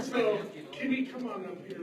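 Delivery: calling her up with a laugh. Real, not acted. Host laughing as she calls Kimmy up. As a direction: laugh while waving her up.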